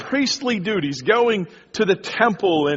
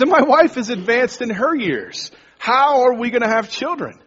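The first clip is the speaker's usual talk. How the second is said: mock doubting Zechariah; 4 semitones higher than usual. Pastor voices Zechariah doubting the angel, mock disbelief. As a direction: scoff at the angel's promise, half-acted. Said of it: "but he goes".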